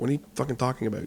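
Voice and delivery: play-acted angry, heated, exasperated, fed-up tone. Retelling own reply to a girl at school: retelling own angry retort. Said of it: "so then I was getting mad".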